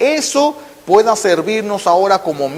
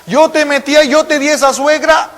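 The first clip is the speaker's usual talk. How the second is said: pleading God; 8 semitones higher, 3 dB louder than usual. Acted. God pleading with the suffering believer, high and loud. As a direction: beg them to let you help, high and strong. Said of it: "Es lo que dice Dios".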